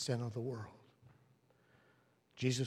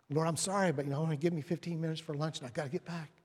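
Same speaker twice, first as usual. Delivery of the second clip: hurried apology; 3 semitones higher, faster than usual. Acted. Harried worker excusing himself in prayer.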